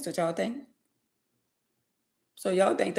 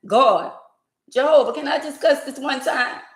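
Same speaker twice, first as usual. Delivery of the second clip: mock TikTok prayer; 6 semitones higher than usual. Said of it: "they say you could cuss".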